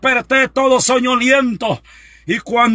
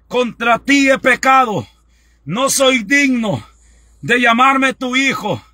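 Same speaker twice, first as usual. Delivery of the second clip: guided prayer. Acted. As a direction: lead the flock line by line in prayer. Leads congregation in repentance prayer.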